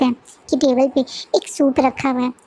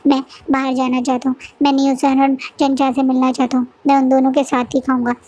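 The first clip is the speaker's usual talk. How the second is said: sulky. Acted. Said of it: "wing गुस्से में बोलता है".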